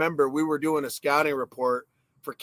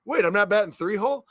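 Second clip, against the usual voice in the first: surprised rookie; 5 semitones higher, 3 dB louder than usual. Retold or imitated. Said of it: "And I'm like".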